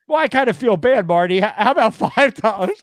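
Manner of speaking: pushy bargaining tone, high; haggling fan voice. Retold or imitated. Retold haggling with Marty.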